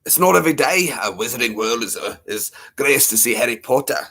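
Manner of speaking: put-on fumbled British character accent; lightly attempted British impression, hesitant; botched attempt at a British voice; Hagrid. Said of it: "I'm getting it so wrong".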